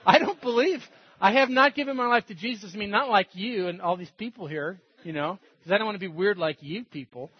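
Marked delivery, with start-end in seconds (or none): 0.0-2.7 louder, higher re-enacted admission; emphatic retold confession. Retold blunt confession to the girl.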